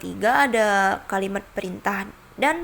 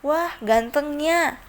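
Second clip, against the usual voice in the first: high, slow admiring gasp of delight; excited admiring exclamation; 6 semitones higher, slower than usual. Shown as a demonstration. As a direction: gush over someone handsome, drawn out. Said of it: "Contoh kalimatnya seperti".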